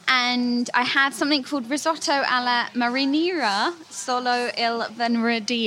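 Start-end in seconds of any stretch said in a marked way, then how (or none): 1.7-5.7 amateur Italian accent on the dish name. Real, not acted. Naming a restaurant dish to a colleague, attempted Italian accent. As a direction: try an Italian accent, slowing on the words. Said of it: "I like your Italian accent there".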